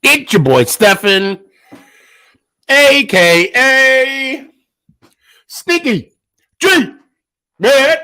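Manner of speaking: talking through spicy burn; strained, high, burning mouth; mouth on fire. Real, not acted. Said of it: "my mouth is on fire right now".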